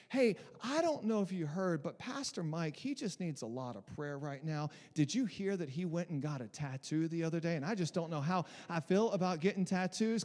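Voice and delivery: mock Southern gossip; Southern accent. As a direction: put on a Tennessee accent, feigning concern. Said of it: "why I'm talking in a Southern accent".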